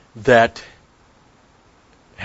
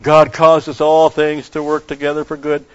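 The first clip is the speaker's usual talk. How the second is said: "God causes all things to work together for good" whined out mockingly, higher and louder; mock whine; 3 semitones higher, 6 dB louder than usual. Preacher mocking people who whine the verse, in a mock whiny voice. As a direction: parody a complacent believer's whiny chant. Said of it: "And then they whine".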